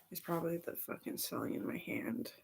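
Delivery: sudden whisper. Real, not acted. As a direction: drop to a whisper. Whispered aside about rash.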